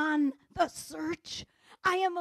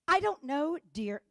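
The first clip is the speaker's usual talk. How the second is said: mock irritated brush-off, dropping on "dear"; judgmental tone. Wife retelling her answer about lost glasses, judgmental tone. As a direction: start raised, then drop curtly on the endearment. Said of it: "Notice the tone".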